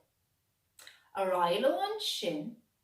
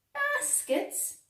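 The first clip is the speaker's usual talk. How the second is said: much higher, startled question; surprised echo; 4 dB louder than usual. A narrator's reading. Clegane echoes Bingy, high and surprised. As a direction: pounce on the word in surprise.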